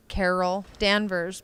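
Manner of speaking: slow, careful "Carol Danvers"; "Carol Danvers", measured and deliberate; careful practiced pronunciation. Shown as a demonstration. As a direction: say "Carol Danvers" slowly, as rehearsed. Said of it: "practice over a hundred times saying that name".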